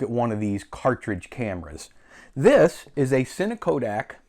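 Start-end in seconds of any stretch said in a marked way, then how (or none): 2.3-4.2 glitchy robotic-sounding voice; robot voice, like a choppy connection. Real, not acted. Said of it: "I sound like a robot now".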